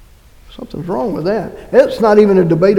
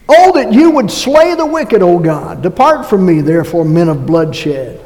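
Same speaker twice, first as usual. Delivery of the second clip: forceful scripture reading; 5 dB louder than usual. Acted. Reading psalm aloud, forceful.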